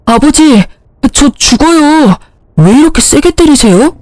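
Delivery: a slapped son whining to his father; whining husband. Acted. (뺨 맞고 징징대는 남편)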